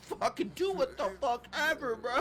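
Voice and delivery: Vince McMahon impression. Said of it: "Vince McMahon back in the day was like".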